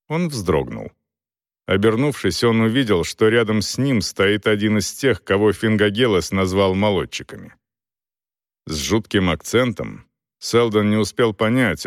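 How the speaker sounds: usual speaking voice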